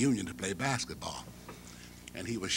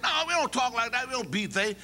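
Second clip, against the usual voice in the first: put-on much higher, indignant young man; student's voice; 12 semitones higher, 3 dB louder than usual. Mouse rejecting bad grammar, high and indignant. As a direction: scoff at the idea.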